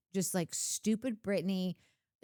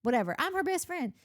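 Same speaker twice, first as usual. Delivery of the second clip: high, fast put-on whine of a left-out friend; mocking Kristen's complaint in a high whiny voice; 7 semitones higher than usual.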